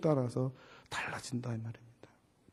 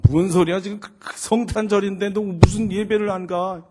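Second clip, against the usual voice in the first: 높고 크게 따져 묻기; 어이없다는 듯 목소리 높여 나무라기; 5 semitones higher, 7 dB louder than usual. Retold or imitated. 딸과 다투는 아빠. (버럭 따지는 말투)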